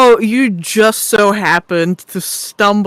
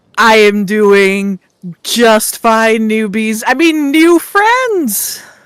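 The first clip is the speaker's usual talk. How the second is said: faintly dismissive, condescending, belittling tone. Answering in character when asked how he is doing: belittling tone. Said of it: "that sounded belittling".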